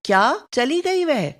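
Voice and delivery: a touch of disbelief; mild acted astonishment; surprised. Shown as a demonstration. Teacher giving a surprise example, lightly surprised. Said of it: "विस्मय या आश्चर्य सूचक".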